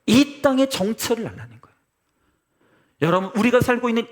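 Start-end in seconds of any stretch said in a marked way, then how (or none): 0.1-1.8 raised, forceful preaching voice; emphatic repeat. Real, not acted. Preacher repeats the land's true identity to congregation, emphatic. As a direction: drive the point home to the congregation.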